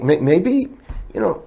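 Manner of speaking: softly retold, hesitant hint; tentative suggestion. Bartender to drooling coworkers, tentative suggestion. Teasing the other bartenders gently.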